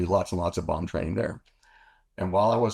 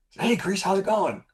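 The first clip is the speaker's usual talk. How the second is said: bright high mock greeting from a woman; lightly voiced wife calling out hello; high imitated woman's greeting; 13 semitones higher than usual. Woman calls to pilot in commissary, high greeting.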